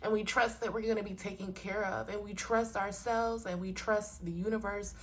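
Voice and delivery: fighting back tears, quietly; hushed, moved to tears; getting emotional. Real, not acted. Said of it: "I'ma get emotional".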